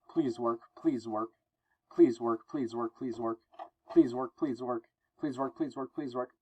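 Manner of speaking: desperate plea. Acted. Spidey pleading with his web shooters.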